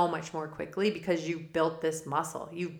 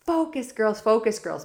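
coach yelling; 5 semitones higher, 6 dB louder than usual. Retold or imitated. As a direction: yell it out higher and louder. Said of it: "LaRouche would be yelling out".

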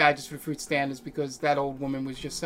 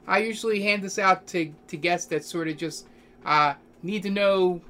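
higher-pitched clerk explaining; desk clerk character; 4 semitones higher than usual. Acted. Clerk handing guests a rough map, higher character voice. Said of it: "He's like".

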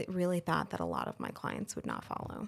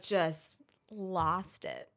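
slow breathy whisper, barely voiced; much slower than usual. Real, not acted. Telling friends how she broke down, slow whisper. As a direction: let it drop to a hushed, drawn-out whisper. Retelling breaking down in tears.

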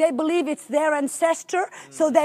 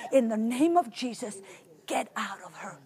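soft, low, calm command; 5 semitones lower, 8 dB quieter than usual. Retold or imitated. Preacher quietly commanding the demon, calm and soft. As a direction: command quietly, without raising the voice. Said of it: "I spoke very calmly. I didn't raise my voice".

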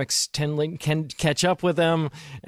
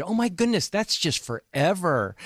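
put-on Valley girl; 2 semitones higher than usual. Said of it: "I feel sound like a Valley girl".

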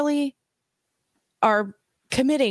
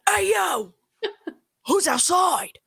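higher, calling out boldly; a pitched-up call into the dark; mock call out; 10 semitones higher than usual. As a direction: call out to whoever's out there. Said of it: "You either yell or you don't say anything at all".

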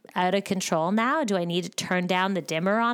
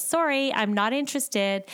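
breezy disinterest; 5 semitones higher than usual. Pretend. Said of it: "living with disinterest in that critic's voice".

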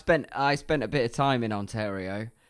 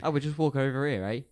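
lightly imitated Canadian with tagged "eh"; casual mock Canadian, questioning each "eh"; Canadian accent; 2 semitones higher than usual. Shown as a demonstration. Co-host keeping up the eh game, Canadian accent. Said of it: "putting the A on everything".

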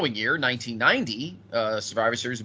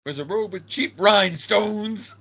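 laughing; 7 semitones higher than usual. Real, not acted. Laughing while quoting announcer.

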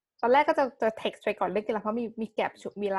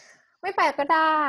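very slow, higher and louder; drawn-out dramatic sulk; 7 semitones higher, 7 dB louder, much slower than usual. Retold or imitated. Repeating her threat to her boyfriend, slow and loud. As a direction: stretch each word out in wounded pride. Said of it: "ความดรามาติกมัน".

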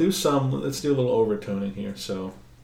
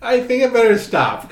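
high surprised inner voice; 7 semitones higher, 10 dB louder than usual. Retold or imitated. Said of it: "I'm like".

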